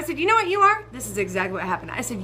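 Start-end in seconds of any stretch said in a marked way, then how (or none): 0.2-0.8 higher and louder challenge; confrontational. Retold or imitated. Passenger confronting bus driver, heated and loud. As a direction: square up and call him out.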